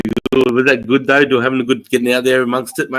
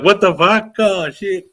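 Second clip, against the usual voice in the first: high, louder startled cry; 10 semitones higher, 3 dB louder, slower than usual. Retold or imitated. A mate startled by a yell in the forest, high startled cry. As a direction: jump at a shout out of nowhere. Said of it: "He would have been like".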